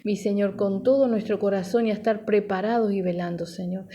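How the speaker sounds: steady, flowing congregational prayer; fervent prayer. Real, not acted. Pastor asking the Father to minister to listeners, fervent prayer. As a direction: pray earnestly in an unbroken stream of petitions.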